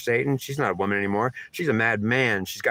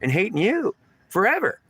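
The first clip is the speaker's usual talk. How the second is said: high, anguished demand; acted outburst of anger, pitch leaping up; mad and angry; 8 semitones higher than usual. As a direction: wail the question in protest. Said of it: "And she's saying".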